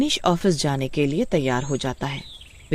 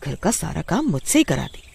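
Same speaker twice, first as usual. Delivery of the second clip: angry retort. Acted. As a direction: snap back at the old woman. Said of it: "गुस्से में उठती है और माँ से बोलती है".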